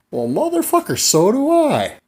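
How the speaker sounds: loud, high triumphant punchline; hammed-up squealed agreement; mock excitement. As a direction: shout it high, drawing out the ending. Comic punchline of feigned coincidence.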